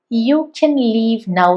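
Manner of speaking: You can leave now, can reduced to kən; soft quick can; light weak can. Shown as a demonstration. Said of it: "വീക്ക് form ആണ്".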